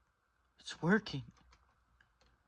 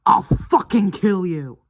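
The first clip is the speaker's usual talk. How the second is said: slow, heavy, menacing threat; 5 semitones higher, 4 dB louder than usual. Acted. Warning Pete never to touch his wife, slow menace. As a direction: lean on each word like a promise.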